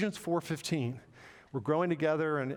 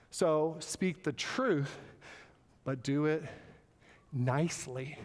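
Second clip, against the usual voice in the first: gently; slower than usual. Shown as a demonstration. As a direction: speak it kindly, like a caring friend. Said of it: "my manner, my attitude".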